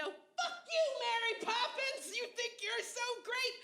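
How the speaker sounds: high-pitched mock yell at a billboard; a hammed-up high yell; mock yell out window. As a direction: shriek it at the poster, half-joking. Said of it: "yelling out the window".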